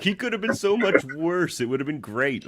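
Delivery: villain voice. Retold or imitated. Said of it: "He's just like".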